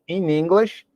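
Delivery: ordinary talk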